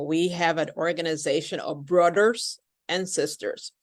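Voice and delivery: put-on foreign accent, "brothers" said with a D; imitating learners who say "brothers" as "broders"; non-native accent. Teacher imitating non-native speakers, mild foreign accent. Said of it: "I hear a lot of non-native speakers say".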